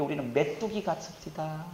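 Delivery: soft, shrinking admission; acted dejected report. Scouts reporting the giants, acted hushed dejection.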